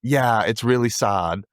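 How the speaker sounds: put-on slow, drawn-out regional TV-character accent; lightly imitated accent, unhurried; Kelly's accent. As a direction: put on her accent, stretching the words. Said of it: "When I do her voice".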